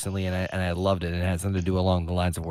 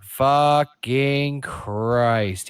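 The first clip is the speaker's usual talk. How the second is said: long drawn-out, higher exasperation; exasperated inner voice; 4 semitones higher, much slower than usual. Retold or imitated. Dad reacting inwardly to pronouns, drawn-out exasperation. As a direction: stretch each word out in mock dismay. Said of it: "And I'm like".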